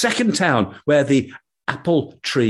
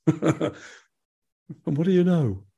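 slow sentry question; 4 semitones higher, 4 dB quieter, much slower than usual. Acted.

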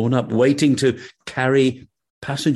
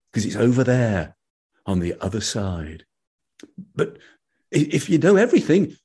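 lightly voiced ferryman; 3 semitones higher than usual. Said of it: "said the ferryman".

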